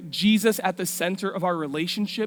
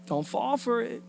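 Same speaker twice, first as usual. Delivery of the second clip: soft, raised-pitch caution; hushed warning; 4 semitones higher, 5 dB quieter than usual. Acted. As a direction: gently warn them off, under the breath. Warning after the loud rap impression.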